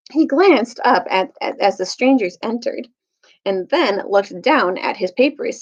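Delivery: steady read-aloud storytelling voice; story narration. A narrator's reading. Teacher reading Dawn Treader aloud to the class, storytelling voice. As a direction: read the chapter to listeners, clear and even.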